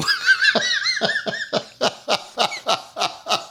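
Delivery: high burst of helpless laughter; cracking up at the memory; big laugh. Real, not acted. Laughing hard while telling the canoe prank story.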